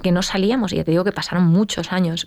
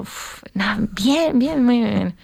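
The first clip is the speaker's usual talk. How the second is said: forced bright reply, higher; fake cheerfulness; 4 semitones higher, much slower than usual. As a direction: pretend everything is fine. Finge que todo va bien. (fingiendo que todo va bien)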